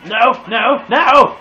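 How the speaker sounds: loud, high shout of "no"; a real cry of dismay; yell. Real, not acted. Gamer shouts as he gets shot, loud and high. Losing a fight in game.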